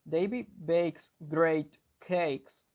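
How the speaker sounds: slow Geordie 'David bakes great cakes', with 'ay' vowels; Geordie accent. Shown as a demonstration. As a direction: demonstrate Geordie, slowly, word by word. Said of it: "The Geordie accent is, for example".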